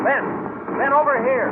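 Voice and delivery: loud, high call across the street. Acted. Detective calling partner across street.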